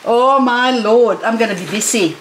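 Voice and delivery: ordinary delivery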